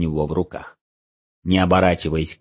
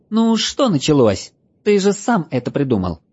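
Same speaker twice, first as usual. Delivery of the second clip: high, exasperated elf voice; squeaky, fed-up little elf; christmas elf; 7 semitones higher than usual. Acted.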